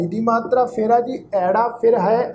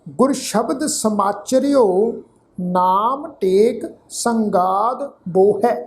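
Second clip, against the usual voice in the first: slow, phrase-by-phrase recital with long pauses; measured scripture recitation; much slower than usual. Real, not acted. Teacher reciting gurbani to the sangat, slow and measured. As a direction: recite each phrase deliberately, letting it settle.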